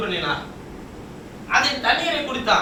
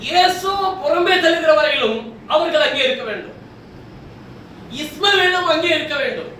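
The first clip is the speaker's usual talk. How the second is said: raised, ringing preacher's delivery; emphatic preaching; 4 semitones higher than usual. Acted. Preacher telling the congregation how long they must stay, emphatic. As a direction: drive the point home to the congregation.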